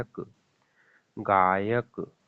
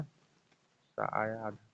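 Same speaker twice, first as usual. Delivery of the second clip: slow explaining; 8 dB quieter, much slower than usual. Shown as a demonstration. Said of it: "वा से पहले क्या आया?".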